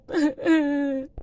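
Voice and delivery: short breaking sobs; crying sob. Acted. Husband trying not to cry before his sick wife, sobbing. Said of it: "أنت بتعيط ليه؟".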